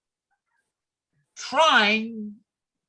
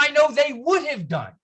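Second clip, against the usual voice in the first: mock confident editor; 6 semitones higher, 5 dB louder than usual.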